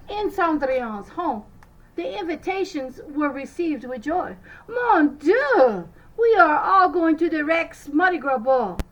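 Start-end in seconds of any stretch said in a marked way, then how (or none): 4.7-8.8 put-on loud, high, gleeful girls; excited shout. A narrator's reading. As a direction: cheer it out like thrilled sisters. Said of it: "the girls shouted".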